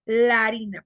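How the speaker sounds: "La harina" as one word, larina; fuse both a's in "La harina"; vowels merged. Shown as a demonstration. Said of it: "Reducción de hiato a vocal".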